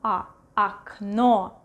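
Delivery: "окно" as ak-NO after a separate A; unstressed O as A. Shown as a demonstration. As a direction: isolate "A", then say "окно" as ak-NO. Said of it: "And this one".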